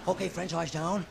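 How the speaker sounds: gangster bingo caller voice; James Cagney bingo caller. Retold or imitated. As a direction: call bingo like a tough gangster. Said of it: "I think it'd go something like this".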